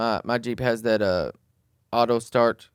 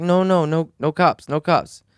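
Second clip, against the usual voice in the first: higher, louder mock plea, slowing on no cops; imitating pleading driver; 5 semitones higher, 4 dB louder, slower than usual. The drunk driver begging the Jeep owner not to call police, mock plea. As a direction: beg like a scared stranger.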